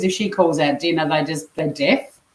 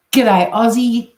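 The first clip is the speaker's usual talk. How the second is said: loud greeting; 5 semitones higher, 6 dB louder, slower than usual. Real, not acted. Greeting Aussie arriving in chat.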